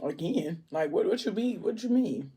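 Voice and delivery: questioning with swooping, rising pitch; puzzled. Retold or imitated. Alani reacting to the lady's "again", puzzled. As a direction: act out confused disbelief, stumbling over the question.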